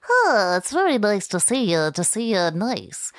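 loud, lilting Irish leprechaun. Acted. Leprechaun greeting a visitor, lilting Irish voice. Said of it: "there's a little leprechaun voice".

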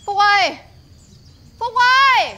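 loud high call across the house. Acted. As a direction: shout his name to find him. Calling out for missing boy.

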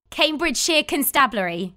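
"Cambridgeshire Constabulary" said cleanly in one go; proper pronunciation. Shown as a demonstration. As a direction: run "Cambridgeshire Constabulary" together smoothly. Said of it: "now say it all at once".

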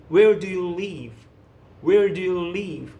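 slow, deliberate model line; slow repeat-after-me. Shown as a demonstration. Teacher leads the class in repeating, slow and careful. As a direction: spell out each word slowly for learners. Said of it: "따라하셔야 돼요".

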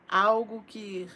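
loud, swelling prophecy with long held words; prophetic preaching. Acted. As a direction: proclaim it like a revelation over the flock. Proclaims prophecy over viewers.

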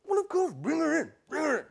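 high, quick, far-from-own voice; flustered royal welcome, pitched high; eager invitation. Acted. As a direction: usher her in eagerly. Parents eagerly invite the old woman.

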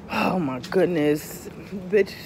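slow, soft and low; retold overwhelmed awe. Speaker retelling lying there with partner, hushed overwhelmed voice. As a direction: let it out slowly, as if overcome.

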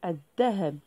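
الذهب said adhdhahab, lam dropped, dhal doubled; lam silent. Shown as a demonstration. Teacher showing pupils the silent lam, adhdhahab with doubled dhal. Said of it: "لام لا تنطق".

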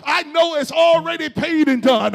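rhythmic preacher cadence; preaching. Acted. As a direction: call and response preaching. Preaching call and response.

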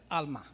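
Alma with a small catch before the A; a slight glottal hesitation before Alma. Shown as a demonstration. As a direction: Aramaic Alma with a little stop before the A. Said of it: "kinda like a little hesitation to it".

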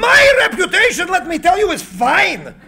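high, laughing, loud retort; amused contempt; scoffing laugh. Acted. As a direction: laugh it off with disdain. Tesla scoffs at reputation.

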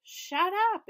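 loud shut up; angry snap. A narrator's reading. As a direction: snap at the pest. Elaine snapping at Daniel.

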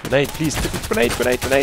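urgent repeated call for grenade; grenade warning yell. Real, not acted. Calling for a grenade.

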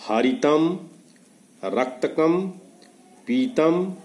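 each Sanskrit colour word said slowly and distinctly, pausing between them; clear demo pronunciation. Shown as a demonstration. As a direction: pronounce हरितम, रक्तकम, पीतम clearly for the class to repeat. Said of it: "उनको जोर जोर से उच्चारण करना है". (साफ़ साफ़ उच्चारण करके दिखाना)

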